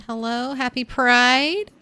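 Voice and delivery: hushed shout, half voiced; whisper yelling. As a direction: shout it under your breath. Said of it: "Let's do a little whisper shout".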